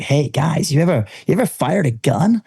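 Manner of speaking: lightly put-on American gun host; a hint of a friendly showman's voice; OK Corral man. Range host asks visiting British guys about guns, lightly imitated. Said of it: "and he was like".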